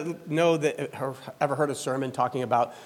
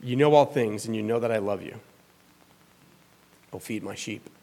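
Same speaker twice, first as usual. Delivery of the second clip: hurt; 4 semitones lower than usual. Acted. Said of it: "He's hurt".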